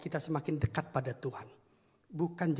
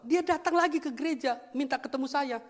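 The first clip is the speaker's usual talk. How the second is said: excited retelling; 11 semitones higher, 4 dB louder than usual. Real, not acted.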